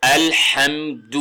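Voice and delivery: الحمد slowly as "al-ham-du", throaty ح; clear pesh. Shown as a demonstration. Teacher showing how we will read it, clear pesh. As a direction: end الحمد on a pure, clear "du". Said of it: "تو ہم پڑھیں گے".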